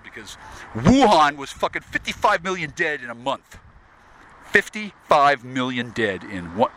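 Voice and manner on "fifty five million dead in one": slow emphatic. Shown as a demonstration. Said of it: "wait, no, wait, wait".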